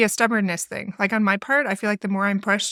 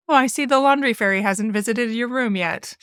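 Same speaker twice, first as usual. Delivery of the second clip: condescending sarcasm. Retold or imitated. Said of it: "kind of this condescending tone".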